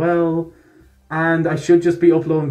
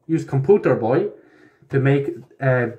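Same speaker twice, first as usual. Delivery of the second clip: mock foreign accent, broken English; put-on accent. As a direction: play a silly foreign tech guy. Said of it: "I did that in accent".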